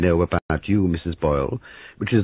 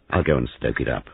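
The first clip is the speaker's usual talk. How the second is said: curt; 4 semitones lower than usual. Acted. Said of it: "He said shortly".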